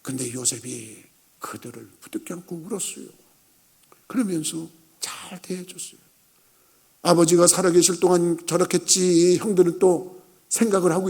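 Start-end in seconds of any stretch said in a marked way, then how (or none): 0.0-6.0 very soft, low, solemn; quiet, slowed-down reverence; hushed storytelling. Real, not acted. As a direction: drop to a tender hush for the embrace. Hushed telling of Joseph's tearful embrace.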